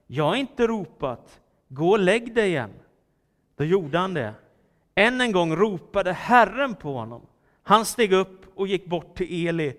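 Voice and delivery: animated, emphatic Bible reading; scripture reading. A narrator's reading. Preacher reads young Samuel's night calling to the congregation, animated scripture reading. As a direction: read the story out clearly with dramatic pauses.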